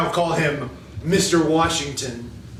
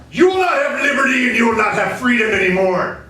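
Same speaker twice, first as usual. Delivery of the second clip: tyrant king; 5 semitones higher than usual. Acted. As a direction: bark at the peasants as a mock tyrant king. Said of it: "who said".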